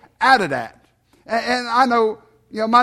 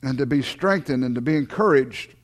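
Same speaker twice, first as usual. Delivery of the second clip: low, measured praying voice; public prayer; 5 semitones lower than usual. Real, not acted. Pastor closing prayer with the congregation, low measured praying. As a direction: pray in low, evenly spaced phrases.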